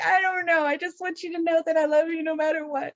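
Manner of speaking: high, far put-on mom tone; doting mom voice. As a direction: pitch it way up, sugary mom. Mom answering kids, acted quote.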